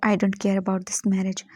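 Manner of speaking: slow, deliberate, cold refusal; husband coldly rejecting the marriage, slow; cold dismissal. Acted. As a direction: drag each word out with contempt.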